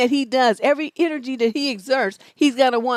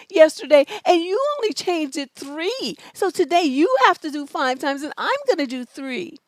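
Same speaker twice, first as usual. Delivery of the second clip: petty scorekeeper; 4 semitones higher than usual. Retold or imitated. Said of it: "'Cause then you're gonna be like".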